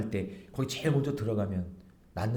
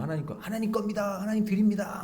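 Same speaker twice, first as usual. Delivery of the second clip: higher, mock-pious voice; mock pious lip service; 7 semitones higher than usual. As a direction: say it piously, only with the lips. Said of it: "말로는 그냥". (입으로만 하는 경건한 척하는 목소리)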